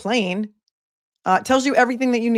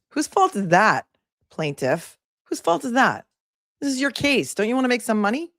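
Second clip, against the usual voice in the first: scolding; 4 semitones higher than usual. Real, not acted. Scolding absent plaintiff rhetorically.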